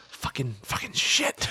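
soft under-breath slow curse; muttered curse. Retold or imitated. Host retelling the newscaster's slip, muttered. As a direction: curse under your breath, forgetting the mic. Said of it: "he was like".

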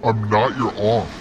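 slow, menacing aunt quote; mock furious aunt. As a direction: drag out a slow, angry threat. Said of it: "She says".

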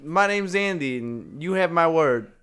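lightly voiced upbeat pitchman; salesman's catchphrase. Andy greeting customers at his word emporium, salesman's catchphrase.

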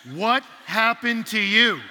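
loud, drawn-out shocked question. Retold or imitated. Couple seeing the bloodied hiker, shocked. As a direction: stretch it out in undisguised shock. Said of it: "disguise their shock".

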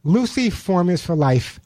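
live sponsor read in the host's own lightly pitched voice; radio ad read. Acted. Radio host pitching pet food to his listeners, light ad read. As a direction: sell the pet food to the listeners, steady and upbeat.

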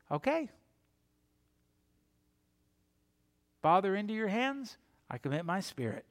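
soft, unhurried acted last words; hushed, giving oneself over to the Father; calm surrender. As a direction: gently let go, with pauses. Calm surrender after it is done.

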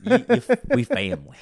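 high loud gruff family speech; hammy tough guy voice; Vin Diesel voice. Pretend.

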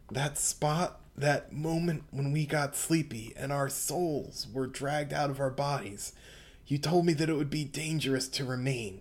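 soft, sad lightly voiced boy; Bruno's voice. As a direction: read it softly, a hint of grief. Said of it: "read it in Bruno's voice".

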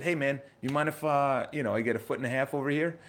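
easygoing request with a smile; friendly smiling ask. Shown as a demonstration. Asking a stranger on a date for room, joking and smiling. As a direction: ask for room like it's a joke between friends. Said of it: "as a smile, joking around".

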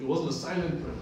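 preacher leaning on wasn't; stress on wasn't. Real, not acted. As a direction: hit wasn't hard. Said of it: "emphasis on wasn't".

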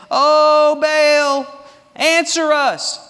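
high, loud wailing plea to Baal; mock pagan cry. Prophets of Baal calling their god, loud mock wail. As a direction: cry out to the idol, hammed up. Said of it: "And they said".

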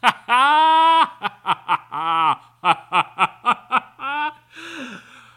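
high, loud burst of laughter; loud cackle. Real, not acted. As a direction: break into a big howling laugh. Laughing at the affectation.

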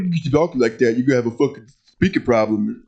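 lightly imitated sixth grader with impeded speech; speech-problem imitation. Host retells a sixth grader's comeback, mocking his speech. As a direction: mimic a boy's speech impediment. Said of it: "he did talk like that as a sixth grader".

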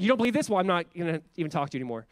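dismissive. Retold or imitated. Mock drive-by evangelist.

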